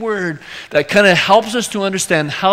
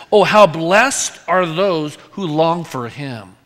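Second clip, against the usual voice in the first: scripture reading; 3 semitones higher than usual. Acted.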